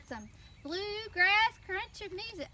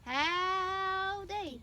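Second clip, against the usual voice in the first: cowboy howdy; 3 semitones higher than usual. Shown as a demonstration. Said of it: "I want you to say".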